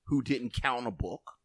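low, measured voice with real weight; bass in voice. Real, not acted. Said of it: "there was some bass in your voice".

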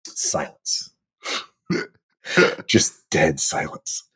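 hushed. Real, not acted. Deadpan after awkward audition.

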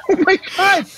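high-pitched, aghast cry; shocked exclamation. Acted. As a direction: react aghast, voice leaping up. Horrified reaction to grandpa's confession.

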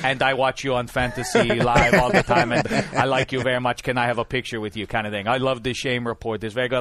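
light mock Russian accent, laughing through it; a playful, hammed-up Russian fan accent. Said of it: "doing Giselle or a Russian guy".

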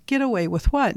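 high-pitched Dennis. Retold or imitated. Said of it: "very high-pitched voice".

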